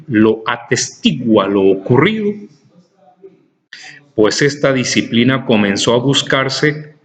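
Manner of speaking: measured dictation reading, punctuation spoken aloud. Acted. Teacher reading a philosophy text to students, dictation. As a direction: read it out for students to write down.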